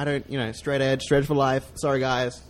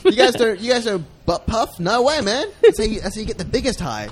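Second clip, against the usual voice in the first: higher, incredulous boast; mock bragging; 5 semitones higher than usual. Fake drug expert to friends, mock bragging. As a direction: brag as if everyone else is clueless. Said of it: "like me bragging about doing weed".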